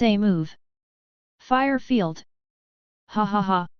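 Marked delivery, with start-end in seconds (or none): 3.1-3.7 lightly voiced hearty villain laugh. A narrator's reading. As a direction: laugh it off, smug and open. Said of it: "Mirong Ce laughed heartily".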